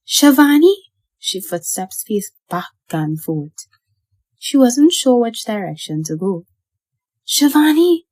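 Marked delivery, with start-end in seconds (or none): 0.1-0.7 loud, high imitation of the uncle's call; copying Uncle Ram. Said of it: "I yelled". 7.3-8.0 loud, high imitation of the uncle's call; copying Uncle Ram. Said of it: "I call again".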